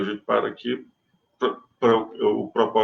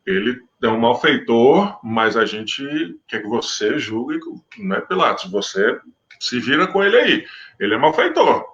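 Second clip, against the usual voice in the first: the accusers. Retold or imitated. The Jews handing Jesus to Pilate, mildly insistent. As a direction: push the prisoner onto Pilate, a touch pushy. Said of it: "eles queriam assim, ó".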